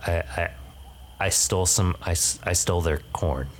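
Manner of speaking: lightly voiced sheepish raccoon; hesitant raccoon confessing, halting and subdued; a hint of a guilty little critter; raccoon character. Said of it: "and then says".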